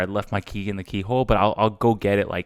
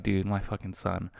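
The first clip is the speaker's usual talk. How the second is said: exasperated dad; 2 semitones lower, 10 dB quieter than usual. Pretend. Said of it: "deep down to be like".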